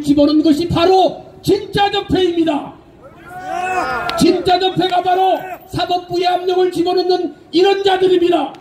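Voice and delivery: shouting. Real, not acted. Rally speech against ruling party.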